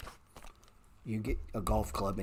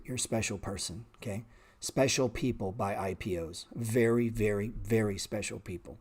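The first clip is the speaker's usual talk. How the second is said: sarcastic. Real, not acted. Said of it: "I exaggerate it like that".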